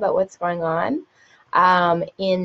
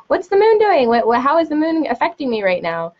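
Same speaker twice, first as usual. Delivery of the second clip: high, louder mock questioning; imitating eager askers; 7 semitones higher, 4 dB louder than usual. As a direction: pester like a needy questioner, pitched up. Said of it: "and they go".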